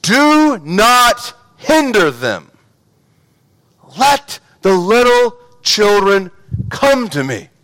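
slow, firm coach commands; football coach voice. Shown as a demonstration. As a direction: bark it like a coach, slowly. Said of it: "it's more like my football coach voice".

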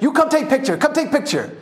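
lightly voiced tiger-photo hawker; high-pitched Thai man. Thai photo hawker calling tourists over, high-pitched. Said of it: "who has a real high-pitched voice".

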